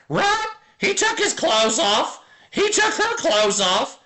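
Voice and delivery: squawky parrot voice jumping high at the end. Acted. Streamer voicing a tattling parrot in a dirty joke, squawky and rising. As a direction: play the parrot, ending each bit with a shrill rising right.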